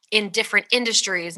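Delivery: ordinary talk, nothing marked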